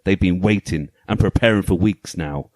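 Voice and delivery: dramatic storybook narration; story voice. Pretend. Host reading the game manual's story to co-hosts, story voice. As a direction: read it out like a pulp sci-fi tale, measured and weighty. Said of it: "my story voice on".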